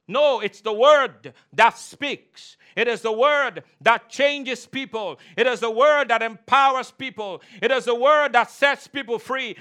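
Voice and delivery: punchy sermon cadence with weighty key words; emphatic preaching. Real, not acted. Preacher telling the congregation the Word changes people, forceful. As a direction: preach it forcefully, building in volume.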